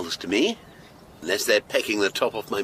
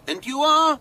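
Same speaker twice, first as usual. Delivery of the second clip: sharply raised question; 14 semitones higher, 3 dB louder than usual. Acted. Detective presses for her name.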